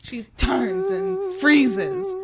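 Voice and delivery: hushed, then rising high; dramatic whisper. Pretend. Retelling the cliffhanger to the co-host, mock dramatic whisper. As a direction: build the suspense from whisper to high.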